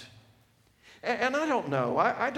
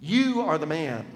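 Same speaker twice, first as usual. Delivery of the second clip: forceful thrust. Acted. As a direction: drive it in like a knife. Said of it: "The thrust".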